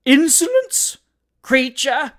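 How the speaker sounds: loud, high-pitched indignation; outraged insult. A narrator's reading. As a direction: hurl it at your rival. Matrons trade insults.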